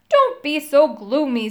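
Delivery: lightly voiced friendly character; a touch of friendly reassurance, projected. A narrator's reading. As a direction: chide a gloomy friend, kindly and with some push. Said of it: "softer and had a friendly sound".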